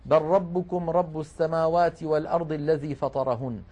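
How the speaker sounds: بل ربكم recited as barrabbukum, lam merged into the ra; Quran recitation. Shown as a demonstration. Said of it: "وقال تعالى".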